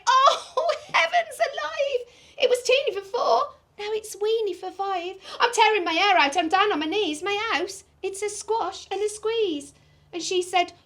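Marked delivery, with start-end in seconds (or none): 0.1-9.7 high, giggling through the lines; laughing old lady. Acted. Storyteller laughing while voicing the old lady's complaint. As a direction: laugh as the flustered lady speaks.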